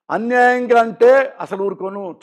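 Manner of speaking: slow, firm and deliberate; slow, deliberate defiance; slow defiant vow. Real, not acted. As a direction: lay each word down like a vow. Angry vow.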